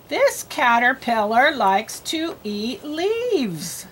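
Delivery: slow, word-by-word reading; spaced-out words, one at a time; slow read-aloud. Shown as a demonstration. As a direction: read slowly for a beginning reader. Models reading for a learner.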